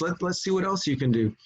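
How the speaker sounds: a hint of a pushy trickster; lightly voiced Raven.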